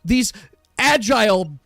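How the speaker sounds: hyped arena commentator; arena announcer. Acted. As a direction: call the chaos like a ringside announcer.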